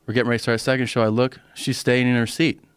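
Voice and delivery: usual speaking voice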